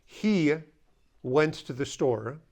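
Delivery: slow, careful example; deliberately spelled-out example; slow model sentence. Shown as a demonstration. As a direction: say it slowly for learners. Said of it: "If, when you say".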